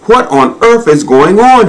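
high, urgent question; calling out. A narrator's reading. Giraffe to the rushing crowd, calling out. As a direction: call up high to a passing crowd. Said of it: "he called out".

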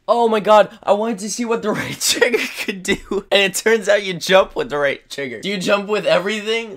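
high, loud, rushing amazement; excited discovery. Real, not acted. Gamer finds trigger makes you jump, excited and loud.

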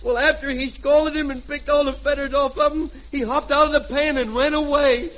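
a sly brat telling a tall tale; little boy. Acted. Junior fibbing to his mother, sly kid voice. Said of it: "and I'll be the little boy".

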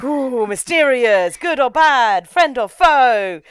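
mock intrigue. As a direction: savour each word like a teasing mystery. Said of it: "you're like".

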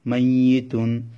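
"মাইয়িতুন" with a firm, doubled y. Shown as a demonstration. Teacher shows students tashdid on ya, "মাইয়িতুন" with firm doubled y. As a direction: lean hard on the y in "মাইয়িতুন". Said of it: "ইয়া একটু শক্তভাবে উচ্চারিত হবে".

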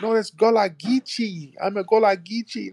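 high put-on insistent voice; mock pretender. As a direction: parody a faker doubling down. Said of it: "you got an accent".

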